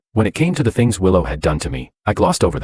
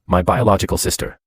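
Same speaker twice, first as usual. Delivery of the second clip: biological said with a firm push on each syllable; stress on biological. Acted. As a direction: lean hard on "biological" to make it clear. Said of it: "I made sure to stress the word biological".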